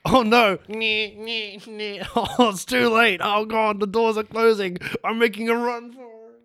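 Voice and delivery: frantic, high and loud; panicked. Acted. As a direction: panic as the doors close. Trapped as mall doors close.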